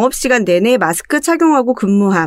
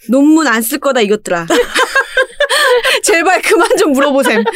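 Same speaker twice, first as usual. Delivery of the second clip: exasperated listener; 7 semitones higher than usual. Pretend. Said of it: "voicing the listener's reply".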